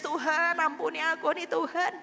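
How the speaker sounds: building from a plea to a loud, high cry; retold tearful prayer. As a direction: pray it like you're breaking down, rising to a wail. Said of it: "saya nangis".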